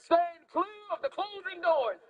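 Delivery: slow, clear conductor call; clear subway announcement. Retold or imitated. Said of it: "That's the only thing right".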